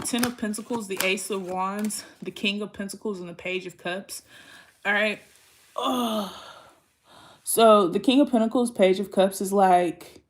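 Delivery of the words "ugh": weary drawn-out groan; exasperated "ugh". Real, not acted. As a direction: groan between thoughts. Groans after reading out cards.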